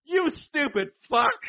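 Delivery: loud, high, drawn-out yell; mock yell. Retelling his angry chat message, shouting it. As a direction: blast the insult at full volume. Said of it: "twelve hours later".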